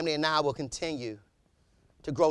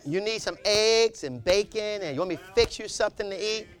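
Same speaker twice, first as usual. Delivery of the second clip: sweet wife; 3 semitones higher, 4 dB quieter than usual. Retold or imitated.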